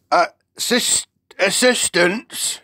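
high, loud, halting giant voice; beaming giant. A narrator's reading. BFG finds his word, beaming and loud. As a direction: grope for the word, then land it proudly.

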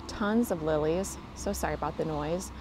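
ordinary delivery

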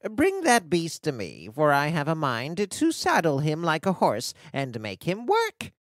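lightly voiced commanding witch; wicked witch. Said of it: "said the wicked witch".

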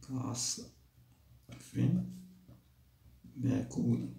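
a soft murmured repeat of كعصف مأكول; quiet echo. Shown as a demonstration. Teacher softly repeating the verse ending to pupils.

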